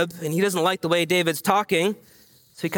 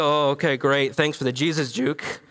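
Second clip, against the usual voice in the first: sarcastic; 5 semitones lower than usual. Retold or imitated. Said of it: "you go".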